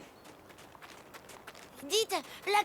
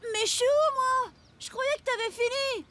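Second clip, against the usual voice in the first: indignant surprise; 5 semitones higher than usual. Acted. He is missing from painting.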